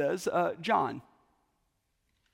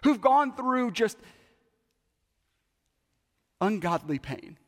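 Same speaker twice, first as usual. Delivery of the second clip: Fred's hardest question. Retold or imitated. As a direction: build to the hardest case. Fred's climactic challenge.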